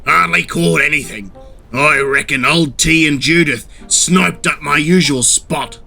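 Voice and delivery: grumbling. A narrator's reading. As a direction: moan crossly in a put-on voice. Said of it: "grumbled Sea Dog".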